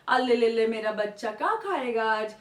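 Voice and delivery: lightly voiced cooing to a toddler; baby talk. Shown as a demonstration. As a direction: coo at a little child, a hint of baby talk. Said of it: "जैसे आप बहुत प्यार से उनसे". (हल्की तोतली बच्चों वाली बोली)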